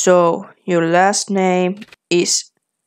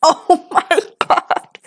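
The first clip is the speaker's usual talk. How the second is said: high, slow gasp of disbelief; oh my god, stunned; surprised; 10 semitones higher, slower than usual. Real, not acted. Reacts to the surname reveal.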